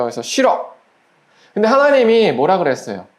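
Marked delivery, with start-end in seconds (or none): 0.2-0.7 higher-pitched mock refusal; acted refusal. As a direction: lightly act a child saying no. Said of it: "안 주고 싶어요". (높은 목소리로 거절하는 시늉)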